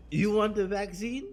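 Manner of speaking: mock Nikolai taunt. Retelling the vaccine scene to his cohost, slow mocking taunt. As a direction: dangle it like a sneering villain. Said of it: "he's like".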